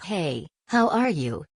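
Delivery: slow, hammed-up fake British greeting; a lightly done American's British accent, drawn out; badly faked posh British accent; mock British accent. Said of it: "in a British accent".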